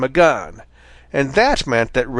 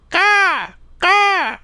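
crow's shout; much slower than usual. A narrator's reading. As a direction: call out like a crow. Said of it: "shouted Blacky the Crow".

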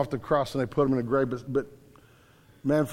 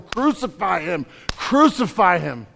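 crowd yelling; 2 semitones higher than usual. Retold or imitated. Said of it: "crowd who's yelling".

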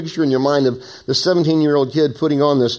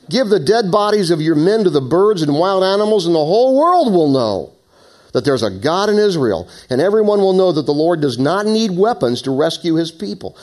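high, raised battle proclamation; David shouting back; 7 semitones higher, 4 dB louder than usual. A narrator's reading. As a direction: declare it forcefully to the whole army. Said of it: "David shouted in reply".

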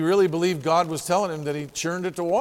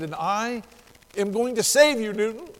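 voice of God; 7 semitones higher than usual. Retold or imitated. Preacher voicing God's promise to the dying fisherman, booming and high. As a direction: proclaim it like God speaking from above.

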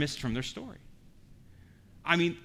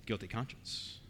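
hushed answer; 7 semitones lower, 13 dB quieter than usual. Real, not acted. Preacher answers his own question.

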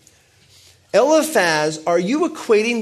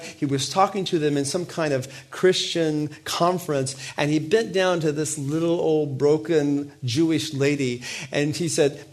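normal talking voice

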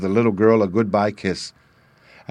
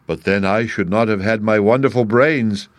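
cried out. Acted. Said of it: "cried the Scarecrow".

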